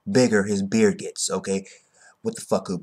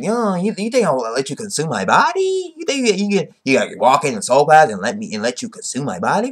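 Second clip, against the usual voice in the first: Ichibei quote; 2 semitones higher than usual. Retold or imitated. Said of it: "And Ichibei's like".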